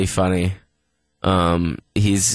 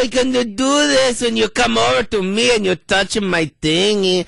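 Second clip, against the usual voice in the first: put-on Hispanic accent; 8 semitones higher than usual. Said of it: "Can you do a Hispanic accent".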